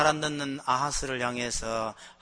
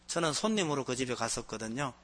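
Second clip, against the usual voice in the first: ordinary talk, nothing marked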